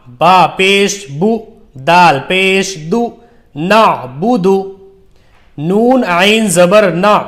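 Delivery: slow, measured recitation with long-held letter names; drawn-out teaching recitation; Qaida spelling drill. Shown as a demonstration. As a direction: spell it out deliberately for beginners to repeat.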